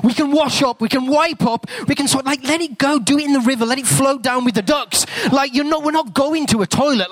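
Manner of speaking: put-on high, coaxing reassurance to a small boy; coaxing dad.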